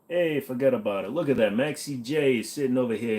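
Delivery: put-on light New York mobster accent; a hint of Italian-American wiseguy accent; playful wiseguy mob accent. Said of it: "Maybe I'll do the other kind of mob".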